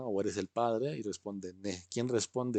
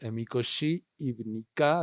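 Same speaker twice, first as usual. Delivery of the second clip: model phrase; 3 dB louder than usual. Shown as a demonstration. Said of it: "Repiten esto".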